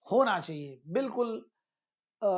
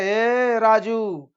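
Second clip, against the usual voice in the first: drawn-out, louder call to someone; 5 dB louder, much slower than usual. Acted. Teacher acts hailing Raju for an errand, calling out. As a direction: call out the name, stretching it long.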